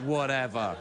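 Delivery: low mock brush-off; imitated dismissive whatever. Father mimicking his son's whatever, dismissively. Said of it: "I hate when he says it".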